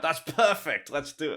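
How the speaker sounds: mock excitement. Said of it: "we were like".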